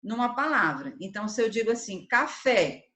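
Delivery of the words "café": café with the second syllable punched; café, stressed on its last syllable. Shown as a demonstration. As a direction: say café, leaning firmly on the final fé. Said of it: "qual sílaba é pronunciada com mais".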